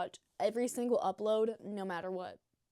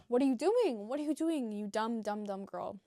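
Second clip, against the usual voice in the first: mock scolding yell; 5 dB louder than usual. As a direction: yell at yourself half-joking. Inner voice scolding herself.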